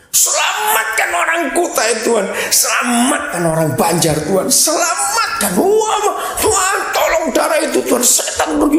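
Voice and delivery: high, shouted commands flung at God, hammed up; mock shouting prayer. Preacher mocking intercessors who yell at God, hammed-up shouting prayer. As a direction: parody a prayer warrior screaming orders. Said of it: "kenceng suaranya, urat leher keluar semua ... Teriak-teriak".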